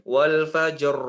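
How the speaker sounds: wal fajr with a balanced, lightly trilled r; moderate r. Shown as a demonstration. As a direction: keep the r in wal fajr between no trill and a full roll. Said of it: "Atau juga tidak berlebihan".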